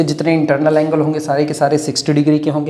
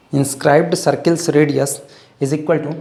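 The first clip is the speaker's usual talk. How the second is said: very slow, spaced words; slow dictation; much slower than usual. Shown as a demonstration. Teacher dictating a formula, very slow. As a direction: dictate slowly for writing. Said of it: "dictating formula".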